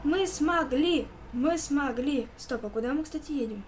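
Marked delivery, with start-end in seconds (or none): 0.0-2.3 loud triumphant cheer; excited shout. Real, not acted. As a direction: yell it out in victory. Escaping the maniac triumphantly.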